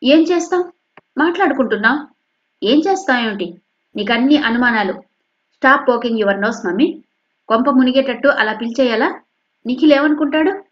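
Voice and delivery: high, forceful talking back; loud bullying retort. Acted. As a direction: browbeat mother loudly. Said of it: "గట్టిగా దబాయిస్తున్నట్టుగా".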